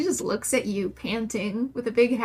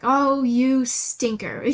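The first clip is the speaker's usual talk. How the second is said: scolding; 4 dB louder, slower than usual. Retold or imitated. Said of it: "you may raise your voice".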